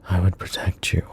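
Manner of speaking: hushed, breathy promise; whisper. Acted. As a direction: whisper it close to the ear. Intimate promise to detective.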